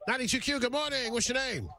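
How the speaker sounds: bright, high radio-DJ greeting; radio host voice. Acted. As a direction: greet the caller like a morning DJ.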